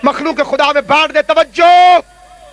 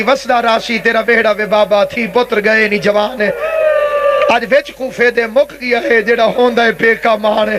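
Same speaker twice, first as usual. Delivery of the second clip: mournfully recited lament of a grieving daughter; tearful lament; 3 semitones lower than usual. Retold or imitated. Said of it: "رو رو کے کہتی تھی".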